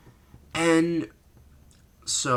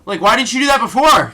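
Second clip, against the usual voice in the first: exasperated; 7 semitones higher, 6 dB louder, faster than usual. Real, not acted. Ranting at the bookers.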